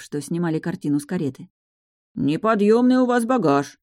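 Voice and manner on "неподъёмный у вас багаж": loud, high, strained under load; straining workman. Acted. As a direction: groan it out while lifting. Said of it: "согласился второй".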